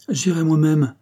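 a determined, decisive "J'irai moi-même"; resolute. A narrator's reading. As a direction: announce it with sudden resolve. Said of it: "avec une résolution extraordinaire".

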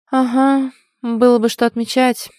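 high, loud dismissal; wry amusement. A narrator's reading. Heroine brushing off her friend's excitement, wry. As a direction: scoff lightly at the idea. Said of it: "усмехнулась я".

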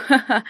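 short haughty ha-ha; mocking laugh. A narrator's reading. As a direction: laugh at them scornfully. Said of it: "знакомый надменный голос".

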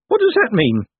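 high, loud character voice; puzzled little man. A narrator's reading. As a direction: ask in high, naive bewilderment. Awestruck Owlswick questions Moist.

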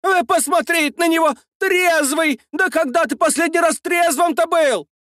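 high mocking shout; mocking scold. A narrator's reading. Saltychikha mocking the driver. (насмешливый крик)

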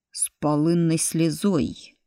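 slow, grim remark; grim retort. Acted. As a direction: drop it in slowly and darkly. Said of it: "мрачно осведомился Фрол Матвеевич".

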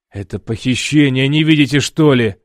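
loud, exasperated outcry; Alex yells at the guards about the kidnapping, loud; exclaiming. A narrator's reading. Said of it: "вскричал я".

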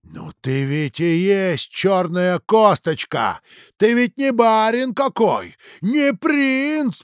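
slow, shocked reply; father stunned by his son. Acted. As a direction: speak as if winded by shock. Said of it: "проговорил ошеломлённый Дудин".

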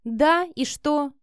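slow, challenging question; defiant slow retort. A narrator's reading. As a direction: throw it back at him as a dare. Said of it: "с вызовом спросила Вика".

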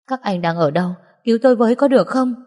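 acted tearful plea, climbing high and quick; vừa khóc vừa cầu cứu. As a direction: plead for help, pitch rising as it hurries. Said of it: "vừa nhìn vào camera vừa khóc". (giọng khóc lóc cầu cứu, cao dần)

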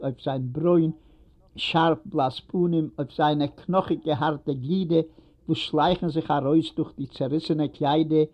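ordinary delivery

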